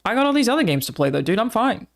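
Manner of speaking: lightly exaggerated brush-off; everyone, imitated. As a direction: imitate a dismissive gamer. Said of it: "everyone's like".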